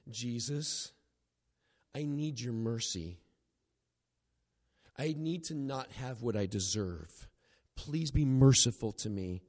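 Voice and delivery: low, humble begging, with pauses; earnest plea. Retold or imitated. Voicing the beggar's plea for mercy.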